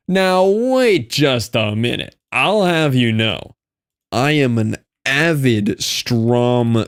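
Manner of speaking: slow, drawn-out mock offended protest; mock indignation. Defending his fandom to chat, mock offended and slow. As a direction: act wounded that anyone doubts you.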